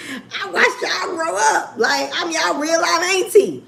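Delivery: high, breathy laugh running into the words. Real, not acted. Laughing to her longtime viewers. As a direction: laugh while telling fans they grew up together.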